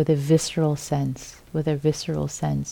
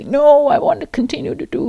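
inner protest; 10 semitones higher, 5 dB louder, faster than usual. Retold or imitated. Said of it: "Don't say".

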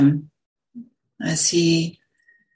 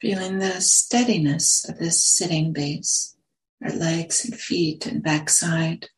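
unhurried meditation guidance, long silences between phrases; guided meditation; slower than usual. Real, not acted. Teacher settling a group into sitting posture, guided meditation. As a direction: guide them gently into the sit, phrase by phrase.

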